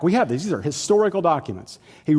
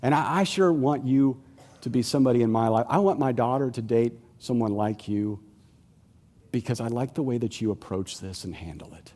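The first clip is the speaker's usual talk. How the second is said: softer, quietly admiring; admiring neighbor; 4 semitones lower, 6 dB quieter than usual. Retold or imitated. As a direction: speak of them with quiet respect. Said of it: "they might say".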